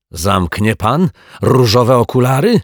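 high, loud, amused question; pleased smiling challenge. A narrator's reading. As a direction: grin through the question. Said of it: "uśmiechnął się martwiak".

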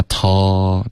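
"talk" left open, trailing off without its k; natural trailing stop. Shown as a demonstration. Teacher shows Alice the mistake, open trailing ending. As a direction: let "talk" fade out with no closure. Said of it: "不能发t这样自然停".

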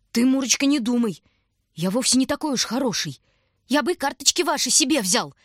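high, loud squeaky voice of a flustered stranger; squeaky shout. A narrator's reading. Stranger confessing to the girl in a high squeaky shout. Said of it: "песклявым голосом крикнул он".

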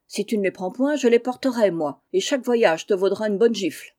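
loud quarrel with his wife; angry shouting. Acted. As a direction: bawl him down in a spat. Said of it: "criant à qui mieux mieux". (mari qui crie contre sa femme)

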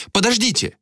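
high urgent plea; desperate cry. A narrator's reading. Malika begging the men to wait, high and urgent. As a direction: stop them, frantic.

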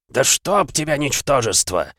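злобный рык сквозь боль; прорычать, раненый и взбешённый; рык от боли и злости. Acted. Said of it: "рычал от боли и злости". (рык от боли и злости)

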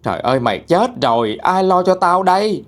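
narrated scolding, pitch jumping up at the end. A narrator's reading. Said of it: "còn mắng chửi". (mắng chửi, than trách)

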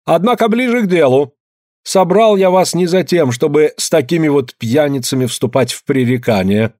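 lightly voiced pompous official announcing the land decision; shrill official. A narrator's reading. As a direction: proclaim the decree grandly. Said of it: "уже не визгливо".

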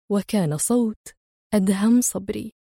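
ordinary delivery, nothing marked

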